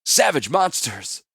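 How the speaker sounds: SAVAGE hit hard, dragged out slowly; slow angry growl. A narrator's reading. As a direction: savage punched loud and high, monsters falling. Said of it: "his teeth grinding angrily".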